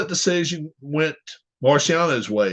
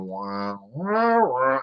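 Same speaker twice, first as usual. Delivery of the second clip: muffled wah wah; 4 semitones lower, 6 dB quieter, much slower than usual. Retold or imitated. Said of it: "it sounded like Charlie Brown's teacher".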